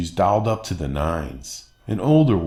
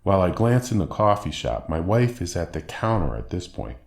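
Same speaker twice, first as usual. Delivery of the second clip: ordinary delivery, nothing marked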